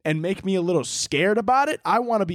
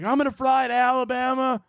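imitated worried mom; 9 semitones higher than usual. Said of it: "She's like".

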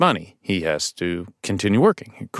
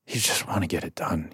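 softer, voiced, just wanting it done; flat throwaway; 4 semitones lower, 10 dB quieter than usual. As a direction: say it like the talk bores you. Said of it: "like you just want, you want this conversation to be over".

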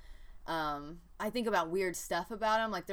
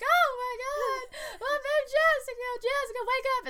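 high-pitched, louder mock hysterical wailing; hammed-up tearful shriek, pitched way up; imitated screaming; 4 dB louder than usual. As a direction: imitate a frantic grandma screaming to wake a child. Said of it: "she'd just go start screaming".

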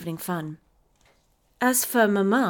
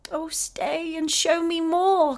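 put-on high, slow pleading child's cry; a little girl clinging to a vanishing spirit, calling high; cried out; 9 semitones higher, slower than usual. A narrator's reading. Effie crying out for the spirit to stay, high pleading. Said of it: "cried Effie".

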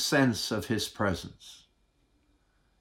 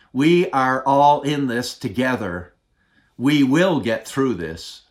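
quoting Prime Minister; 4 dB louder than usual. Retold or imitated. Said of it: "the Prime Minister's words".

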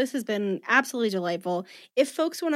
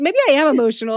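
emotional; 5 semitones higher, 7 dB louder, much faster than usual. Real, not acted. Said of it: "I'm not actually emotional".

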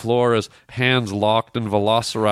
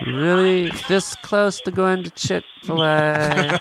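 sarcastic; 6 semitones higher, slower than usual. Acted. Prank caller complaining sarcastically.

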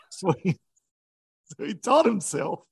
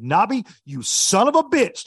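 affectionate cuss; 5 semitones higher, 6 dB louder than usual. Retold or imitated. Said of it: "Just like that".

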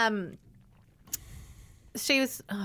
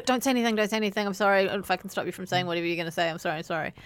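quick hurried apology; much faster than usual. Retold or imitated. Stopping her from saying anything, quick apology. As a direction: rush to head off a reply. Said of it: "Like, quick".

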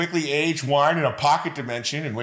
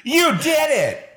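very high, loud, stretched-out cheer; game announcer impression; 14 semitones higher, 5 dB louder, slower than usual. Co-host imitates the Wave Race guy, high drawn-out cheer. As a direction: shout it slowly as an over-excited game announcer. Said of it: "That's my impression of that guy".

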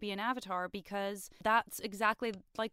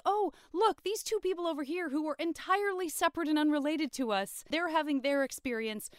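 higher, eager scheming voice; voicing Aang's hopeful scheme, higher; 5 semitones higher than usual. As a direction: play it like a hopeful kid with a plan. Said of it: "It's like".

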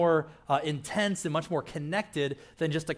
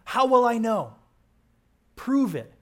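demanding proof; 6 semitones higher, 6 dB louder, slower than usual. Retold or imitated.

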